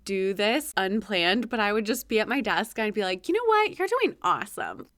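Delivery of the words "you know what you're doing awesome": self pep talk. Retold or imitated. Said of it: "saying positive things out loud".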